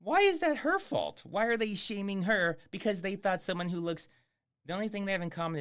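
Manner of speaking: can't believe they blame her, let it burst out; exasperated outburst. Real, not acted. Streamer rants at cops blaming the woman, exasperated outburst. Ranting at the movie's logic.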